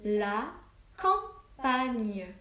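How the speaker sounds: La campagne dictated slowly, drawing out the final gne; dictation word. Shown as a demonstration. Teacher dictating the third word to her pupils. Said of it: "troisième mot".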